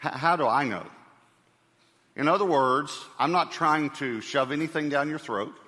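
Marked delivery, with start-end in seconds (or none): 0.1-0.9 emphasize "I" as the key word; the question with "I" picked out as the point; stress on I. Shown as a demonstration. Preacher not pushing religion, just telling his own belief, stress on "I". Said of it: "I want to emphasize the word I".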